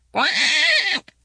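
high quack; duck quack. A narrator's reading. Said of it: "went Missus Mallard".

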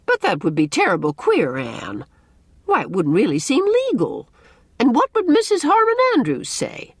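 mildly scandalized character voice; Mrs. Rachel Lynde, shocked. A narrator's reading. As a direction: object in dismay, climbing high and loud at the end.

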